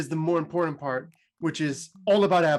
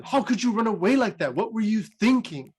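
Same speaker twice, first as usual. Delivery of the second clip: higher-pitched, exasperated mother's telling-off; mock scolding; 5 semitones higher than usual. Mother to child who ran away, acted scolding. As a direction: scold lightly, as a retold outburst. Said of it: "she starts scolding them".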